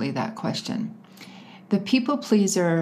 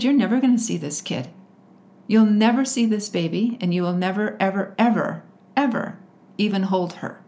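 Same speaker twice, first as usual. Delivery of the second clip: firm retold refusal, a little raised; standing up to him; 3 semitones higher than usual. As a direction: lay down the law, leaning on each ever. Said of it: "standing up to him".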